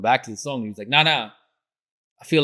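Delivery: retold frustrated protest, pushed up a bit; mildly heated mock complaint; frustrated rapper. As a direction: imitate the rapper's annoyed pushback. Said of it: "he was just mad frustrated".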